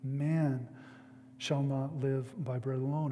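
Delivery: Man said alone, then a pause before the rest; stress on Man, with a pause. Shown as a demonstration. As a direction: set Man apart, then go on. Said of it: "I want to emphasize that first word".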